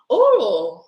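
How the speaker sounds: curious drawn-out ooh; intrigued ooh. Real, not acted. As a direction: tease out the gossip. Reacting to a juicy question.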